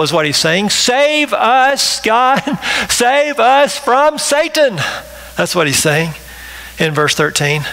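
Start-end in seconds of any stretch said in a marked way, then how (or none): 0.7-4.8 high, slow cry to be saved; desperate plea. Pretend. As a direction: beg God for rescue, drawn out.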